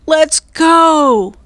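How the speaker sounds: high, loud urgent call; urgent cry. A narrator's reading. Annie cries out to Jack as the storm breaks. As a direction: hurry him over the storm. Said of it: "cried Annie".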